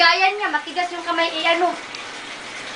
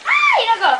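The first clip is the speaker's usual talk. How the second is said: much higher laughing exclamation; high exclaiming; 8 semitones higher than usual. Real, not acted. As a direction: cry out with a laugh.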